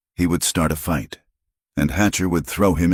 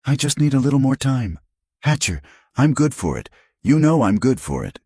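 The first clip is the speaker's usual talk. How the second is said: put-on whining drunk, higher; slurred whining; 9 semitones higher than usual. A narrator's reading. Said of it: "slurred and whining".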